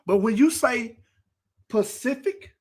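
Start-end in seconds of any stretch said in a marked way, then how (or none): 1.7-2.5 "Pacific" said as /pʰəsɪfɪk/ in place of specific; mock the wrong "Pacific"; mispronounced Pacific. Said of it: "instead of specific".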